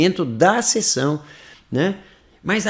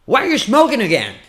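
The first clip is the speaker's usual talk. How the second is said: high, connected question; full-voice challenge; 7 semitones higher, 4 dB louder than usual. Shown as a demonstration. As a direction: confront them out loud in one burst. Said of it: "por que que você tá fumando?". (cobrança em voz aguda e solta)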